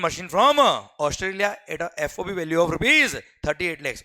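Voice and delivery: very slow, each word spaced out for note-taking; slow dictation. Shown as a demonstration. Teacher dictating the customs question to the class. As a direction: read it out so students can copy.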